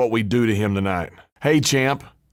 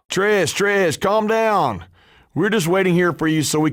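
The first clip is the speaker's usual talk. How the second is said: placating; 6 semitones higher than usual. Acted. Wrestler trying to calm an angry Trish, higher and coaxing. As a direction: soothe her with a raised, coaxing voice.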